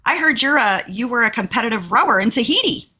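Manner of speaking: high, bright call across the table; loud call across table. Retold or imitated. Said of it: "says really loud across the table".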